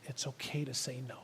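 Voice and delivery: barely voiced, hushed reassurance; imitated gentle whisper. God whispers permission to say no, very hushed. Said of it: "maybe just whispering to you".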